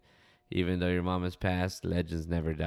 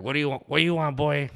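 high, louder mock scolding; imitated scream; 9 semitones higher, 6 dB louder, faster than usual. Owner screams at white-looking customer, mock high and loud. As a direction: bark it in a put-on high owner's voice. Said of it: "Fucking just scream at him".

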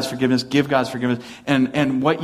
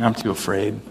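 mock fearful Moses; 2 semitones lower, 3 dB quieter than usual. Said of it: "I think, is just saying".

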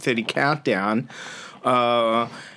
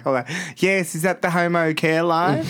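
lightly camp prank-caller voice; a prank caller playing it camp on the phone; mild mock camp voice; 4 semitones higher than usual. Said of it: "put on this, like, gay voice".

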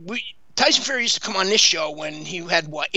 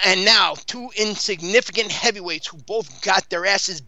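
lightly mimicked ring announcer; a hint of the fight announcer's grand introduction; mock ring introduction, only lightly put on; Michael Buffer. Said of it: "thinking like in his Mi-, Michael Buffer voice".

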